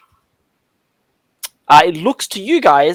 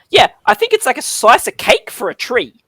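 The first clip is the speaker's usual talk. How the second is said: pixie voice; 6 semitones higher than usual. Acted. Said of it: "One of them puts their hand up and says".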